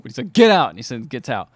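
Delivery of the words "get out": retold yell. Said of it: "Nick Cage yells at the guy".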